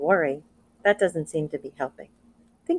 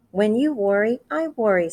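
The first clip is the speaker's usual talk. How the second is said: father's worry; 5 semitones higher, 4 dB louder than usual. Acted. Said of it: "said her father".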